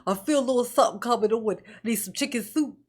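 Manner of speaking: fake sick. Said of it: "He wanna pretend like he's sick".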